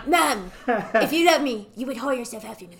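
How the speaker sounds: Cartman. Retold or imitated. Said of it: "he's literally".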